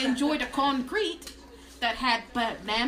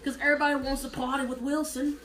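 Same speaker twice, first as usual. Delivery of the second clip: mock Australian, earnest about it; Australian accent. Vouching for Castaway's true story, mock Australian accent. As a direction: insist in a put-on Australian accent. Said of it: "I sound like a Californian Australian".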